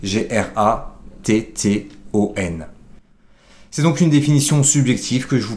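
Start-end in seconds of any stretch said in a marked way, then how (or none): 0.0-2.7 slow spelling out. Shown as a demonstration. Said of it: "ou alors avec deux T".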